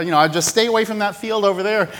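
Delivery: offhand, fast friendly caution; casual rancher warning. Retold or imitated. Rancher casually warns the agent, offhand. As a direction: toss the warning off lightly. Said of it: "the rancher's like".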